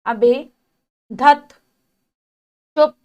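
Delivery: loud annoyed snap of धत; angry exclamation. Shown as a demonstration. Teacher to children, demonstrating an annoyed loud धत. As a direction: bark धत out in irritation. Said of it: "क्रोध सूचक".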